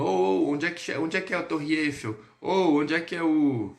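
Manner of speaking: mock brash tourist calling out; hint of a rude tourist shouting questions. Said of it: "Não chegue lá na França já falando".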